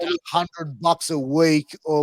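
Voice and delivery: normal talking voice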